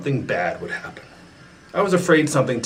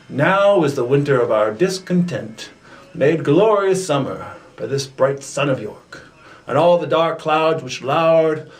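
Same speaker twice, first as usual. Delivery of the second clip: dramatic recitation. Acted.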